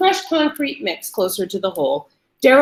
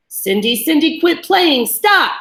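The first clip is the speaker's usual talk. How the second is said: rising, higher and louder plea; frantic pleading; 7 semitones higher, 5 dB louder than usual. A narrator's reading. Captive begging Cindy to stop, frantic. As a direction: beg her harder each word.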